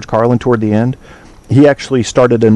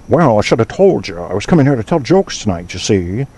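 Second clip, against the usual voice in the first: put-on old-timey 1920s American patter; imitating a 1920s dialect comedian. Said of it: "talking in the nineteen twenties dialect".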